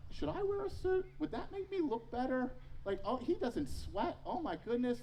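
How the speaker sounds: high, fretful self-questioning, starting very high; anxious inner voice. Retold or imitated. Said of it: "the whole time I'm going".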